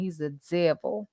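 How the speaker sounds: Southern accent. Shown as a demonstration. Condemning that man to viewers, in a Southern accent. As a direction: say it with a Southern accent, stretching "devil". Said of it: "I wanna say with a Southern accent".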